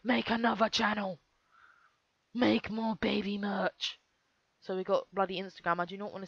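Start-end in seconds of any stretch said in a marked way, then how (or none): 0.0-4.0 put-on voice, slowing to a drawn-out finish; lightly hammed-up greedy parent voice; mock channel parents. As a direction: mockingly imitate merch-hungry parents. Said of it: "I bet they're gonna keep pumping out babies".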